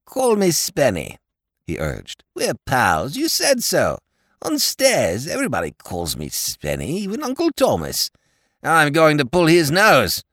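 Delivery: a dim, friendly lord pleading his case; silly-ass lord. A narrator's reading. Lord Drever's voice.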